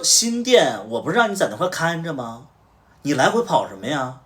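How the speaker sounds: loud, high furious telling-off; retold angry shout at the staffer; angry scolding. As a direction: chew out the employee for leaving his post. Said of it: "我就直接骂了".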